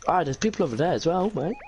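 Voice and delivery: put-on African-sounding accent. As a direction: let the accent slip into African. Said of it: "you turned fucking African".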